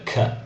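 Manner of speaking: K as a bare "kuh" sound; hard C sound. Shown as a demonstration. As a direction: say K as the sound, not the letter name. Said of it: "it has a K sound".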